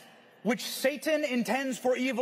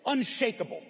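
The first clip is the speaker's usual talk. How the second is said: rousing speech. Shown as a demonstration. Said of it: "That's the speech I wish I could have given".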